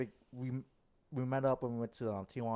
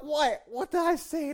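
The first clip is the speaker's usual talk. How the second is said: mock innocent question; 8 dB louder, slower than usual. Retold own innocent question.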